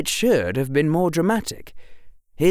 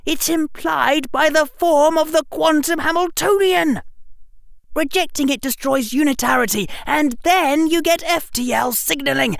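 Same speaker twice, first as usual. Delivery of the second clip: frantic outburst. A narrator's reading. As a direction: rant as if the world broke. Harry's breathless outburst.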